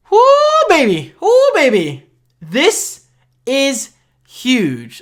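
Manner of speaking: high, loud whooping with a laugh; hyped whoop. Real, not acted. Vlogger cheering a new iOS feature, laughing, high and loud whoop. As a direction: cheer it like a big win.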